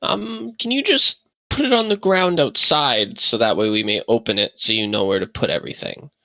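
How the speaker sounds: a hint of the frail host; old man NPC. Old man telling Buckluck where to set the box, polite.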